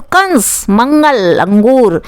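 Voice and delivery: कंस, मंगल, अंगूर with the nasal consonant held through the nose; nasal anusvara. Shown as a demonstration. Teacher showing students the nose sound in कंस, मंगल, अंगूर, nasal anusvara. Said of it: "नाक से थोड़ी आवाज़ आती है".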